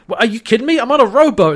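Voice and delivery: high, incredulous protest; imitating indignant disbelief; mock exasperation. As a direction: protest loudly at an absurd order. Voices John protesting the urgent order.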